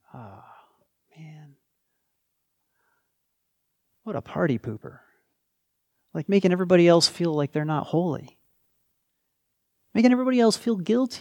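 mock-disapproving, sarcastic, mocking tone. Addressing listeners directly, openly sarcastic. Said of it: "I'm being sarcastic".

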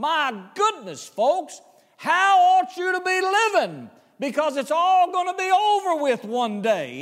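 lifted voice. A preacher quoting the apostle's words, acting out a raised voice. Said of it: "Peter is raising his voice right here".

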